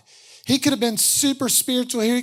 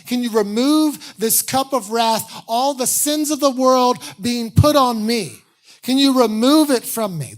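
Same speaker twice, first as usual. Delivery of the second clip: rising louder and higher each line; building plea; 4 semitones higher, 6 dB louder than usual. Retold or imitated. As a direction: beg harder with every question. Jesus pleading in prayer, building.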